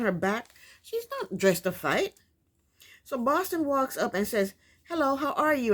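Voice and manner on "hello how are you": friendly greeting. Retold or imitated. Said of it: "she's smiling like they're friends".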